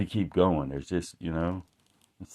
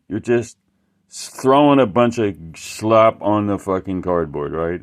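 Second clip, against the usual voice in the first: retold angry guy; 6 dB louder than usual. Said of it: "It, like, he was pissed".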